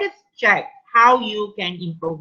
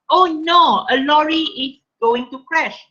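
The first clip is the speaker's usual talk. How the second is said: frightened cry; 5 semitones higher than usual. Shown as a demonstration. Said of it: "frightened voice exclaimed in sheer horror".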